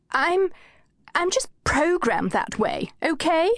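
high, faltering feeble voice; feeble reply. A narrator's reading. Anushka shrinking from Kate's challenge, feeble and high. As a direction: shrink back and answer weakly. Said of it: "replied feebly".

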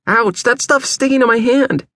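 high, sustained cry of pain; distressed, high-pitched protest; pained yelping. A narrator's reading. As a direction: wail about a burned hand, pitch way up. Burned hand, melted bag sticking.

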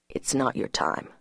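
low, whispered gentle warning; a low, soft whisper to her; soft man. A narrator's reading. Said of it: "he said".

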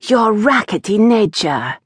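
stern mother repeating pointedly; cold repetition. A narrator's reading. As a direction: Eloise repeating the insult to her daughter. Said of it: "Eloise repeated".

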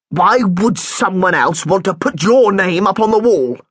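suspicious head teacher questioning a pupil; lightly voiced headmaster. Headmaster Mister Deadman voiced.

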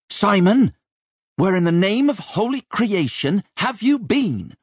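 put-on cross mistress hunting down a truant boy; scolding dragon of a chambermaid. A narrator's reading. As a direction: call him out in a high, indignant screech. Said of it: "Rachel the dragon".

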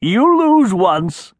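troll wife gloats at Alexander, mildly laughing. A narrator's reading. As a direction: savor the win with a mild laugh. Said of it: "she laughed".

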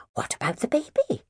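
whispered, worried question; concerned whisper. Acted. Mary worried about a baby left outside, whispering. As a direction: hush it out with concern. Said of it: "concerned lest it".

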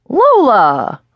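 a producer happily greets his author; warm, cheerful greeting. Acted. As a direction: call her name with bright delight. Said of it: "in a warm, cheerful voice".

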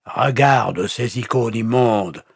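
high, slow, emphatic contempt; thrown out scornfully. A narrator's reading. Pastor showing the captive his icons, scornful. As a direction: fling it out with disgust. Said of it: "jeta le pasteur luthérien".

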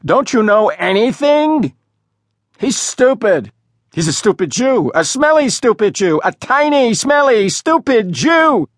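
a high mocking bully's tirade; escalating taunt. A narrator's reading. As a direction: pile insult on insult for the laughing crowd. Smoke blower's escalating insult rant.

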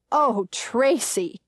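put-on slow, drawn-out reproach to a child; belittling mother's tone. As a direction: stretch it slowly, like scolding a little girl. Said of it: "in a tone that reduces me to pre-adolescence".

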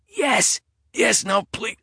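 high, frightened begging; terrified plea. A narrator's reading. Eddie begs the intruder with a knife at his neck, high and terrified. Terrified answer under threat.

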